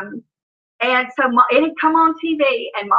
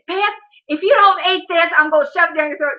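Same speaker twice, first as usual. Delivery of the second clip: higher-pitched mock maternal threat; threatening mom; 5 semitones higher than usual. Mom to daughter refusing ice cream, mock threatening. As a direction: lay down an exasperated ultimatum as mom.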